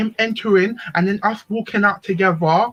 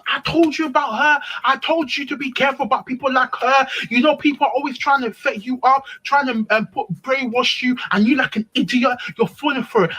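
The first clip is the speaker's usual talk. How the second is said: higher-pitched, exasperated telling-off; scolding friend; 4 semitones higher than usual. Retold or imitated. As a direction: lecture someone who should have listened. Friend scolding her, acted retelling.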